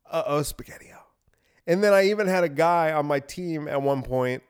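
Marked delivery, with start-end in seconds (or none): 0.0-1.0 whisper. Retold or imitated. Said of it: "I just go".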